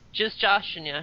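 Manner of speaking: ordinary talk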